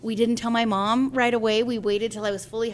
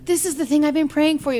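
higher and louder, a mild imitation of elated sister; excited; 6 semitones higher, 7 dB louder than usual. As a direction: lift it up in overjoyed relief. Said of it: "started crying and freaking out".

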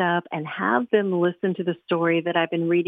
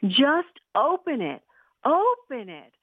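impatient pleading; 7 semitones higher, slower than usual. Acted. Impatient boy begging sister.

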